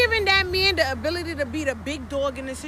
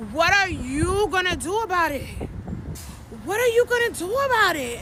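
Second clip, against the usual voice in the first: damsel in distress; 3 semitones higher than usual. Shown as a demonstration. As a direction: play the helpless damsel, lightly hammed-up. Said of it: "like, damsel in distress".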